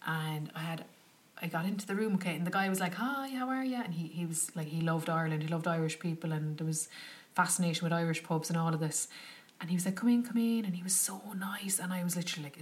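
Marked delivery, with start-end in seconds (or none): 3.0-3.8 a high, friendly greeting from the host; lightly voiced welcoming host; host greeting a guest, lightly voiced cheery. 10.0-10.6 louder, higher eager welcome; lightly voiced keen host waving her in; host inviting guest inside, light eager welcome; welcoming host.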